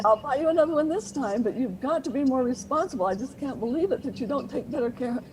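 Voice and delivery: lecturing parent. Retold or imitated. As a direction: scold while giving in. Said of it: "they're still lecturing".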